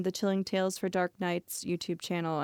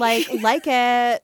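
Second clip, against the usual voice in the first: sing-song echo; 4 semitones higher, 11 dB louder, slower than usual. Pretend. Echoing partner's sing-song plea.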